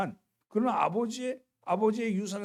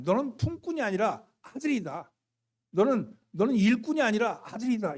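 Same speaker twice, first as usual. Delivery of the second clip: God's voice; 4 semitones higher than usual. Acted. Voicing God to the son.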